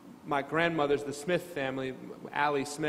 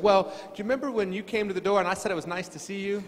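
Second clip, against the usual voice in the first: quick and higher, laughing through the line; laughing punchline; 5 semitones higher, faster than usual. Retold or imitated. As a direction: deliver the punchline while laughing. Punchline of grandmother's story.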